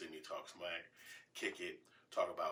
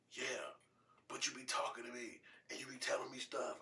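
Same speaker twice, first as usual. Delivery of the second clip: higher-pitched imitation of a son; complaining son; 7 semitones higher than usual. Son answering back to his dad, higher-pitched mock complaint. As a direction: imitate your kid protesting, pitched up. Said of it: "he looking at me like".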